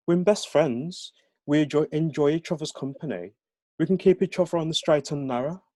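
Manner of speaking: high-pitched, lilting Brummie pleading; Brummie accent. Acted. Jesse persuading his best friend, in high Brummie accent. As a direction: make your case in a high Birmingham voice. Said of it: "aren't familiar with the Brahmi accent".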